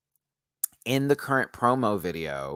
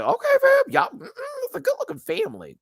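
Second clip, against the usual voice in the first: high, loud gushing over a family; gushing shout; 3 dB louder than usual. Retold or imitated. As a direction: fan out loudly over them.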